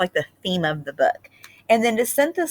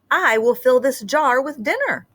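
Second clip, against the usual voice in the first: hungry snake; 6 semitones higher than usual. Acted. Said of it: "he said".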